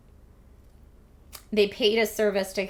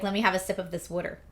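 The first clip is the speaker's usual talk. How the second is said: Philly accent; 5 dB quieter, faster than usual. Shown as a demonstration. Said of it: "That's very Philly".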